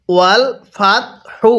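"হু" started with a light breath of air; measured "ওয়াল ফাত হু", airy h on "হু". Shown as a demonstration. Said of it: "হাটা উচ্চারণের সময় মুখ দিয়ে হালকা বাতাস বের করছি". ("হু"-র হা মুখ দিয়ে হালকা বাতাস ছেড়ে)

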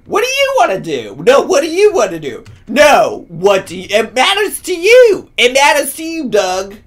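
mock bickering. Imitating a couple bickering over the road. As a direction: play both sides of a petty squabble. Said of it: "bickering with each other".

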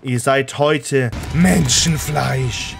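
slow, menacing undead ruler; undead king. Pretend. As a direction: command them to kneel, slow and grim. Gloating over burning enemies.

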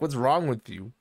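mock fury, rising to a yelp; mock angry rant. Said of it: "So I can get mad and be like".

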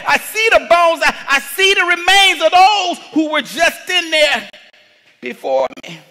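hammed-up worried believer; doubting believer. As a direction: plead fearfully over the hungry lions.

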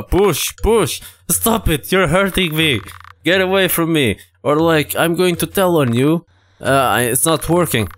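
mock upset girl; protesting girl. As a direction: voice the girl fending him off. Voices Violet crying for him to stop.

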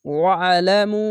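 ওয়া আলামু with a very long held final u; three-alif stretch. Shown as a demonstration. Teacher demonstrates madd for learners, long drawn-out ending. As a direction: hold the last vowel of ওয়া আলামু steadily. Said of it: "তিন আলিফ টেনে পড়বেন".

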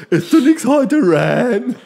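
high, loud squeaky cartoon cat; Stimpy voice. Stimpy fussing over Ren's empty body, high and loud. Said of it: "Und war".

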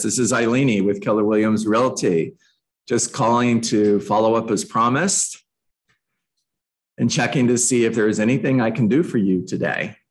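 easygoing, low-pitched follow-up call; pleasantly persistent. Shown as a demonstration. Agent calling a client back as promised, pleasantly persistent. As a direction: check in pleasantly, without pressure. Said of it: "being pleasantly persistent".

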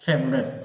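"favorite" as one joined FEV-ret; run-together pronunciation. Shown as a demonstration. Teacher joins the parts for learners, "favorite" said as FEV-ret. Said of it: "ออกเป็นเสียงเดียวกันเลยนะ".

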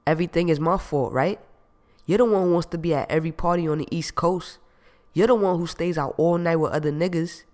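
loud, heated accusing rant; angry accusation. Acted. Jamal ranting at Gina on the phone, furious. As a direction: hammer her with blame.

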